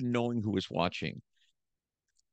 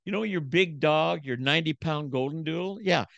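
wife's blunt jab; 6 semitones higher than usual. Retold or imitated. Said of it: "You know what she's gonna say?".

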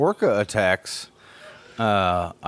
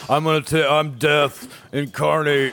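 Nick Cage impression; 2 semitones higher than usual. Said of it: "with Nick Cage saying".

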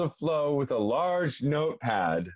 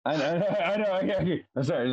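breaking into giggles mid-sentence; trying to hold in laughter; stifled giggles; 3 semitones higher than usual. Real, not acted. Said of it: "I'm trying not to laugh either".

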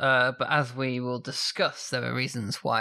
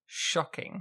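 whispered mock shock; 2 semitones higher, 6 dB quieter than usual. Real, not acted. Repeated as a whisper.

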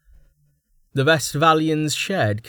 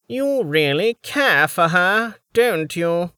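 pensive; 8 semitones higher, 3 dB louder, slower than usual. Acted. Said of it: "sounding pensive".

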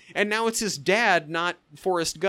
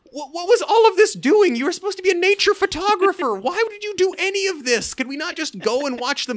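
loud, high, half-laughing disbelief; exasperated outburst; 13 semitones higher, 5 dB louder than usual. Real, not acted. Ranting at the movie's hero, loud and high in disbelief. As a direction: throw up your hands at the film.

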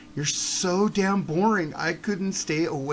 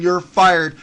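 mock wrestling shout; 2 semitones lower, 10 dB louder than usual.

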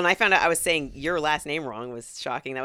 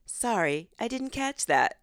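polite assistant voice, lilting higher; Alexa; 4 semitones higher, slower than usual. Retold or imitated. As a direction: imitate a voice assistant's apology. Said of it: "Sometimes Alexa goes".

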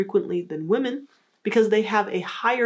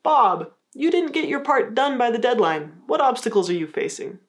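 assertive; 4 semitones higher than usual. Shown as a demonstration. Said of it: "And to be more assertive".

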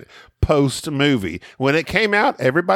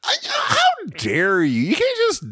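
mock outrage; 3 semitones higher than usual. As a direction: play the offended aristocrat, half-joking. Mock offense at being told quiet.

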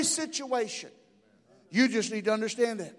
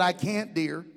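reassuring mother; 5 semitones lower, 4 dB quieter than usual. Acted. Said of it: "gave him a reassuring hug".

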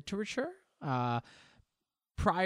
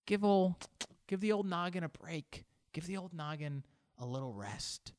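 higher-pitched, softening self-reassurance; gentle coaxing; 5 semitones higher, 3 dB quieter than usual. Acted. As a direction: coax yourself kindly into taking a break. Coaxing himself to rest.

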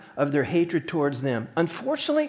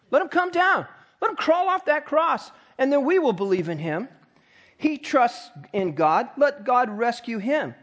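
a much higher, taunting jeer at the cross; mocking taunt; 5 semitones higher than usual. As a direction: jeer it up like the crowd. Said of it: "Talk about mocking".

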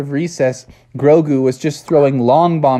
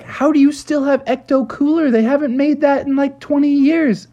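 high-pitched incredulous question; acted disbelief, pitched up; baffled teacher; 11 semitones higher than usual. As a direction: puzzle over it in a raised teacher voice. Teacher baffled by the old drink.

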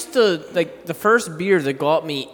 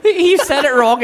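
laughing; 11 semitones higher, 7 dB louder than usual. Real, not acted. Laughing while retelling movie scene.

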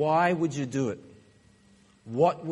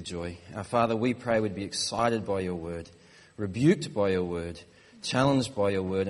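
low, even praying voice; prayer; 6 semitones lower than usual. Real, not acted. Preacher leads the church in prayer before the sermon, praying. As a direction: pray earnestly, pitched down.

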